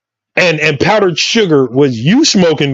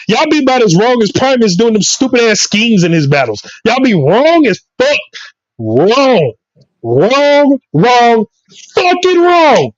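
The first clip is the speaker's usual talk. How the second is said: animated, higher-pitched football tirade; comic sports rant; 4 semitones higher than usual. Acted. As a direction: rant like a fired-up sports pundit.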